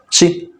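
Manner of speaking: সি as one short syllable, the i not drawn out; quick short vowel. Shown as a demonstration. Teacher showing how zer is read: সি said short and quick. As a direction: say সি quickly, without stretching its vowel. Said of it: "তাড়াতাড়ি।".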